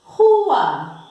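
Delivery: RUA with a strong, breath-like initial R. Shown as a demonstration. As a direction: hit the opening R of RUA firmly. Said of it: "Outro exemplo agora de som forte".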